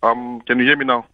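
breaking up on a bad phone line; garbled, cutting-out call audio; scrambled voice. Real, not acted. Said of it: "your line is really bad".

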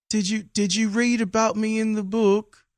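put-on light South African accent, old man. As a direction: imitate an elderly South African doctor. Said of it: "I gotta see if I can do a South African accent and do his accent".

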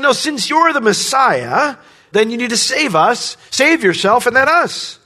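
high, insistent demanding voice; upset demand. Retold or imitated. Preacher voicing the criminal's upset demand to Jesus. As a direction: voice the criminal pressing Jesus to act now. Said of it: "He's upset with Jesus".

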